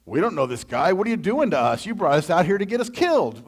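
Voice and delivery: hammed-up fearful grumbling; panicked complaining. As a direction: act out a scared crowd blaming their leader. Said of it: "they're like".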